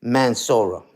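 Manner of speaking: low, falling "Mansoura" for Minnesota; pointedly botched "Mansoura"; mocked mispronunciation. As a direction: drop "Mansoura" low, mimicking the error. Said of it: "You says".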